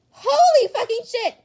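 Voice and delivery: high, loud stunned yell; shocked shout. Acted. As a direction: blurt it out, floored. Bakugo sees photo of Deku.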